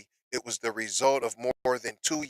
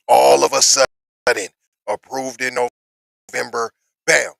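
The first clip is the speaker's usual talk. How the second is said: loud emphatic reveal; 10 dB louder than usual. Real, not acted. Emphatic reveal of quick approval.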